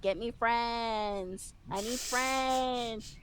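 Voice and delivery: slow, drawn-out pleading, lightly imitated; playful imitation of a needy little voice; mock whispering toy. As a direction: stretch out the words like a toy coaxing its owner. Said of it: "started whispering to me".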